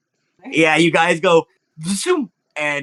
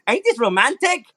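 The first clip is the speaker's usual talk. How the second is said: lightly raised, teasing flirt voice; mock romantic Hermes; 8 semitones higher than usual. Hermes holding Sakura mid-flight, light mock romance. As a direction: tease her with mock romance. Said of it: "he's like".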